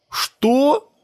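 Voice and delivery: put-on high outraged little boy; a boy shocked at the blame, high; indignant child. A narrator's reading. Sebastian protests to his friends, high indignant child voice. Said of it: "возмутился Себастьян".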